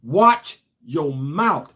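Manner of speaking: put-on a light African accent, very slow; mild African accent, drawn out. African guest warns Al Sharpton, in an African accent. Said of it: "told Al in that accent".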